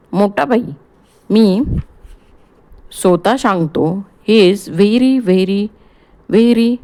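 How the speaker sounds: the doctor brushing off a caller; Gujarati doctor on phone. Acted. (फोनवरचा Gujarati doctor)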